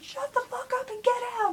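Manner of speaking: high mock yell of a grumpy woken dad; imitating angry dad. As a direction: play the irritated father, hammed-up. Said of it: "my dad went".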